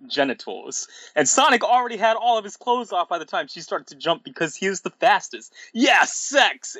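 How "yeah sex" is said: high, excited cartoon cheer; mock shout. A narrator's reading. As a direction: shout it in hammed-up triumph. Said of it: "shouted Sonic".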